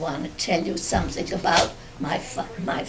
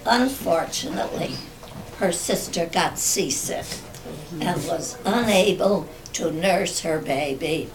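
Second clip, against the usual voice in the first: memoir reading. Acted. Reads written family memoir.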